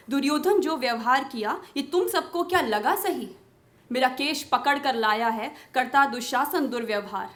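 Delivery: Draupadi's pleading, questioning verse; impassioned poem recitation. Acted. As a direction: declaim the verse as an indignant appeal.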